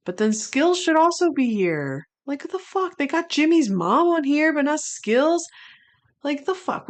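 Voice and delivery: a fan still fuming; outraged again. Real, not acted. Outrage returns over Skills.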